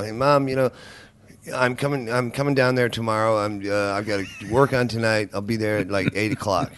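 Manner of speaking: easy, conversational American accent; natural American accent. Shown as a demonstration. Guest showing how he talks to his mother, in a natural American accent. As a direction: chat to Mom in an everyday American accent. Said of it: "this is how I, when I talk to my mother, I talk like that".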